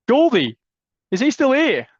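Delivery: looking for the next caller, calling his name out loud. Real, not acted. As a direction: call out to see if he's still there. Host calling for missing guest.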